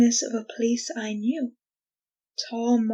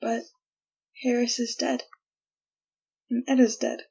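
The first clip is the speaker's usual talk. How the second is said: hollow; 8 dB quieter, faster than usual. Acted. Hope collapses into grim fact.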